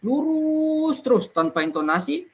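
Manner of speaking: held on one high flat pitch, slow; flat, level delivery with no rise or fall; monotone demo. Shown as a demonstration. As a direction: drone it out without any melody. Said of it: "Apabila kita bicara dengan".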